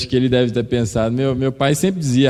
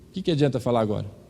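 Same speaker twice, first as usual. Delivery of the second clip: normal talking voice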